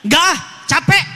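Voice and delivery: whiny mock refusal from a worn-out wife; hammed-up tired wife saying no; wife refusing. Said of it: "Apa kata si ibunya?".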